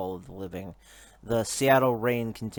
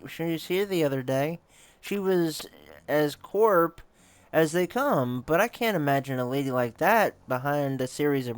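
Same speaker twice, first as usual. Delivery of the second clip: urgent realization; 6 semitones higher than usual. Acted. Player remembering the sister, urgent and raised. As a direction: seize on the memory, pressing the point.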